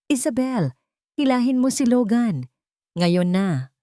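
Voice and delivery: high, urgent yell under a heavy load; straining shout. Acted. Miguel holding the bookshelf yells at Isabel, straining shout. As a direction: shout the command through the strain. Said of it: "Sigaw niya".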